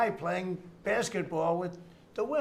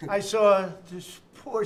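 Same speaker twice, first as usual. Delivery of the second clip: ordinary talk, nothing marked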